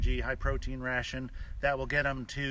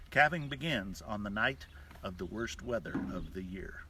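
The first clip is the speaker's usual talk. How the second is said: rhythmic cowboy poem recitation; cowboy poetry. Shown as a demonstration. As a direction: recite it like a ranch poem at the campfire. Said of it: "with this cowboy poem".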